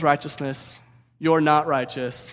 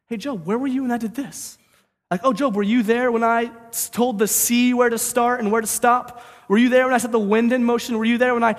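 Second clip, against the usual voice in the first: higher, louder booming challenge; God challenging Job; 6 semitones higher, 3 dB louder than usual. Acted. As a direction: lay it on him, question after question. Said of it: "God just lays it on him".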